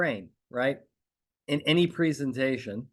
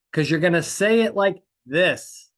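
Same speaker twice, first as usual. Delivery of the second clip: loud, higher, emphatic delivery; raised volume; 5 semitones higher, 6 dB louder than usual. Shown as a demonstration. Coach showing lawyers a change of volume, loud first take. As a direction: project it firmly and punch it out. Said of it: "changing the volume".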